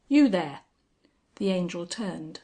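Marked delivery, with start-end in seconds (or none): 0.1-0.6 loud shout from the saddle. A narrator's reading. Sir John hailing the Angel in his wood, shouting. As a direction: call out sharply across the trees. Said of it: "he shouted".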